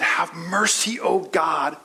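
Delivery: preacher voicing David's heartfelt prayer. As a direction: cry out to God for mercy. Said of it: "he said".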